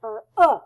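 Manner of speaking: "uh" short and punched as in book; modeling uh. Shown as a demonstration. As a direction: give "uh" a short clipped vowel. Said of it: "O O has two different sounds".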